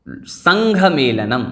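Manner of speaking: संघ said slowly with a clear aspirated घ, not संख; careful pronunciation. Shown as a demonstration. Teacher slowly showing students how to say संघ. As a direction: spell out संघ मेलनम slowly, with the nasal ङ leading into घ. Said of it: "यहाँ पर कई संख मेलनम नहीं पढ़ना है".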